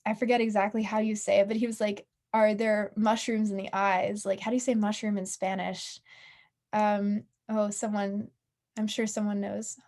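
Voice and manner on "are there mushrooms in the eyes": flat robotic monotone. Retold or imitated. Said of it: "robotic voice".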